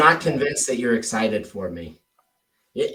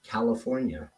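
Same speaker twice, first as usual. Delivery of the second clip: interested, listening. Shown as a demonstration. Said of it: "it's like I'm listening to your answers".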